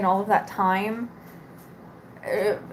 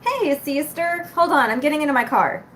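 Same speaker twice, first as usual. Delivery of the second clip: sister on phone; 3 semitones higher than usual. Retold or imitated. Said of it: "And she goes".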